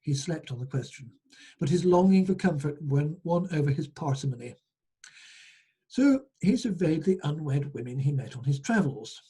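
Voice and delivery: measured storyteller reading aloud; folk tale narration. Acted. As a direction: read the tale out to listeners.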